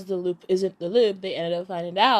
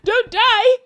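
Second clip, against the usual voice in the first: high, slow pleading cry; mock panic; 9 dB louder, much slower than usual. Heroine begs the dying boss, high and pleading. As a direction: beg him not to die, pitched up. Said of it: "So she's like".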